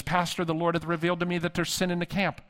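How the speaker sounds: solemn King James pronouncement, mildly put on; prophetic intercessor. Woman delivers a prophetic word to her pastor, lightly voiced prophetess. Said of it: "she would go into King James language".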